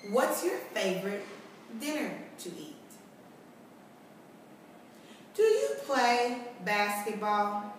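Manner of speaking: lightly voiced question examples. Shown as a demonstration. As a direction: gently model a question. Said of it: "Let's practice that".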